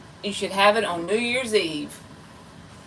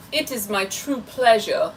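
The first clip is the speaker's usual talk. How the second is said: put-on British accent. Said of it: "That's a terrible, uh, you know, impersonation".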